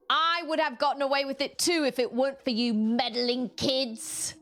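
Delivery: lightly voiced Scooby-Doo villain; cartoon villain. Quoting the caught villain to meddling kids. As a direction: grumble the villain's unmasked line. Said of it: "cartoon villain line".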